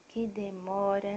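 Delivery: slowish playful sigh of waiting; lightly drawn-out complaint; mock impatience. Real, not acted. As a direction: tease about how long dad takes.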